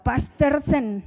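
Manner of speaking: Pastersen said slowly with a long drawn final n and a falling tune; forceful foreign word. Shown as a demonstration. Preacher copies the translator's forceful Pastersen. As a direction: lean hard into Pastersen as the translator does. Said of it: "lo pronuncia así con fuerza".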